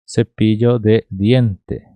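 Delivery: "Cepillo de diente" slowly, every d hard; hard Spanish D. Shown as a demonstration. Teacher repeating the corrected phrase, slow hard-d pronunciation. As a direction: sound out "Cepillo de diente" word by word. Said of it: "Não confundam aqui esse D".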